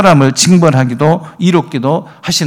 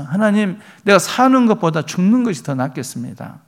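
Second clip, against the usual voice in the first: mock annoyed whining, pitched higher; irritated complaint; 5 semitones higher than usual. Jonah grumbling to God that death is better, irritated. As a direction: grumble at God as if fed up, a bit high. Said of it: "요나가 막 짜증내면서".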